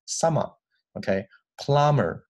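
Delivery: Australian summer with the final er as an open "ah"; Australian accent. Shown as a demonstration. Teacher shows how Australians say summer, Australian accent. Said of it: "澳大利亚人呢会把这个儿发成啊".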